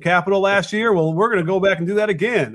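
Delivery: lightly put-on Southern accent; bad Southern accent. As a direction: toss off a clumsy Southern accent, barely there. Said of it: "that was a really bad Southern accent".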